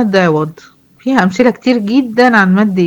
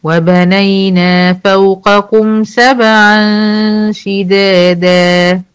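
slow recitation holding the final alif; teacher recites the verse to show the madd; Quran recitation; much slower than usual. Shown as a demonstration. تلاوة بطيئة مع مد الألف. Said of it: "دا أهو".

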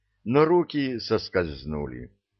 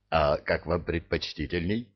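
obsequious; 3 semitones lower, 3 dB quieter than usual. Acted. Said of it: "Услужливо склонился Махмуд".

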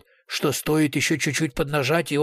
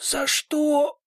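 wheezed out; 11 semitones higher than usual. A narrator's reading. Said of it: "прохрипел Тимур Иосифович".

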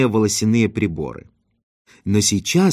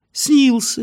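much higher, bright cheerful reply; cheerfully; 13 semitones higher than usual. A narrator's reading. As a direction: toss it off merrily. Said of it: "весело сказал он". (весело, высоко)

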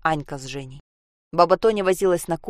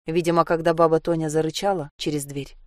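plain reading voice

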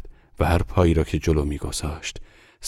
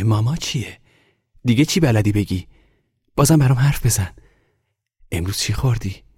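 higher, lively questions to a toy; eager, raised voice chattering to a doll; delighted little boy; 6 semitones higher, 4 dB louder than usual. A narrator's reading. Boy chats to his newly talking doll, delighted.

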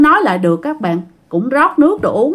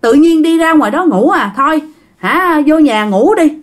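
mild, exasperated scolding, rising in pitch; 4 semitones higher than usual. Acted. Grandma telling grandpa to sleep indoors, mildly scolding. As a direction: chide him, climbing higher as it goes on. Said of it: "Bà ngoại mới la".

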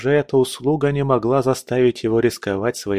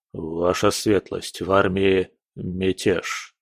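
shaken general; 3 semitones lower than usual. Acted. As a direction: deliver the news heavily. General reports mutiny.

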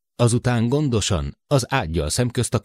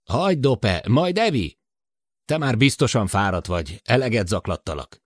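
put-on higher, worried older man over the intercom; Matt's voice; 6 semitones higher than usual. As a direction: voice Matt, anxious about the short circuit. Matt's voice continues. (Matt aggódó hangja)

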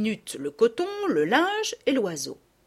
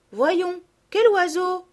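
put-on higher, eager child's question; 7 semitones higher, 3 dB louder, slower than usual. A narrator's reading. Camille running to meet Sophie, eager. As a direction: ask with eager curiosity. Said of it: "dit Camille en jetant ses joncs".

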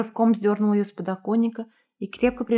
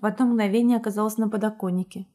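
ordinary delivery, nothing marked

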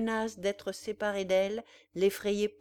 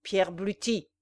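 1 outcry; 5 dB louder than usual. Acted. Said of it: "s'écria-t-il".

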